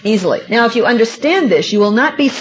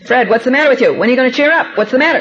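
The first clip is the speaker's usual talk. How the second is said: nagging; 2 semitones higher, faster than usual. Retold or imitated. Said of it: "now two weeks I say this".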